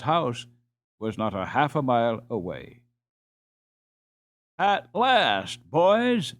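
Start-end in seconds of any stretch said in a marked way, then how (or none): 4.6-6.3 higher, eager call to his friends; a lightly voiced happy shout of relief; glad cry. A narrator's reading. Peter calls to the boys, relieved, lightly excited. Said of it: "he cried".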